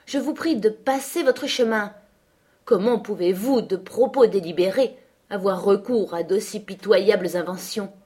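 indignant rebuke. Acted. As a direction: send the liar on his way. Hélène rebukes Heathcliff. (indignée, qui gronde)

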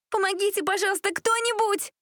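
high, loud cry for help; screaming for help. Acted. A girl in a speeding car screaming for help. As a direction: scream to anyone outside. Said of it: "кричала Элизабет".

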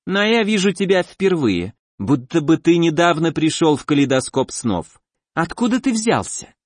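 slimy monster asking sweetly; squelching flesh creature. Acted. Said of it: "приторно чавкало существо".

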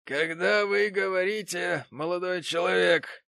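high, loud haughty tone; haughty interruption. Acted. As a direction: cut him off from above. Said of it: "высокомерно прервал его".

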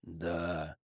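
soft, flat everyday reply; matter-of-fact. Acted. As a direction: say it like nothing. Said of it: "буднично произнёс Сэм".

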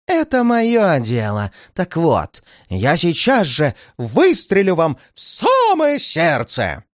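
медленно, с угрозой; наслаждайся угрозой; злорадная угроза. Acted. Злодей угрожает убить. (злодей медленно угрожает)

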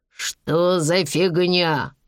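slow, groggy mumble; dazed mutter. Acted. Bandit comes to and mutters in a daze. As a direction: drag it out as if just waking. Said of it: "пробормотал он".

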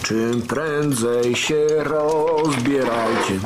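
very slow, drawn out. Acted. Very slow repeat.

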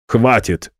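curt angry bark. Acted. The director cuts off an insolent student, barking. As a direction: snap it out to shut him up. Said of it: "рявкнул он".

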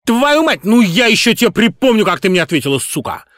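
screeching high-pitched rage; furious shriek. A narrator's reading. Singer screaming at his director in rage. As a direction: scream it at her, spitting with fury. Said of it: "Никас кричал".

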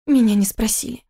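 small squeaked objection; a mild little squeak of protest. A narrator's reading. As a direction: squeak it out briefly, understated. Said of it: "пискнула она и снова замолчала".

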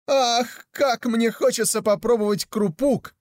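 high, eager sigh of craving; a lightly voiced longing mother. A narrator's reading. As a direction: dream aloud of a treat. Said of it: "сказала мать".

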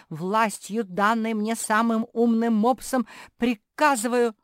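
loud, high, declamatory decree; pompous proclamation. A narrator's reading. Капитолина, left in charge, proclaims pompously. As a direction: proclaim it with official grandeur. Pompous order, interrupted by sister.

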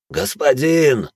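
drawn-out high begging cry; pleading. A narrator's reading. Браут умоляет господина бежать, протяжно и высоко. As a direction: beg him slowly on one word. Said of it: "взмолился Браут".

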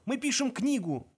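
high, drawn-out plea; beg, stretching the words out; desperate slow wail; pleading. A narrator's reading. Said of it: "взмолился Форд".

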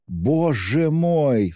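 high, long-drawn cry of dismay; shocked, high-pitched exclamation. A narrator's reading. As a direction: wail it out in shock, stretching each word. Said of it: "вскричала Пульхерия Александровна".

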